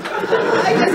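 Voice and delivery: squeaky patient. Acted. Patient on the table asking for surgery, very high and squeaky. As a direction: pipe up like a tiny squeaky patient.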